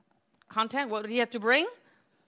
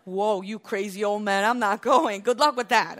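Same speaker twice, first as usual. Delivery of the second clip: mock refusal; 6 dB louder than usual. Imagined Isaac refusing his father.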